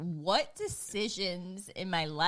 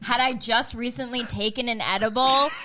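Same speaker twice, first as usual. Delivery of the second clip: raised, retold cross-examination; incredulous questioning; 4 semitones higher, 4 dB louder than usual. Wife demanding context from husband, incredulous.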